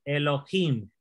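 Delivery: Elohim with the stress on him; e-lo-HIM, weight at the end; stress on final syllable. Shown as a demonstration. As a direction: land on the last syllable of Elohim. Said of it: "la sílaba donde que lleva el acento".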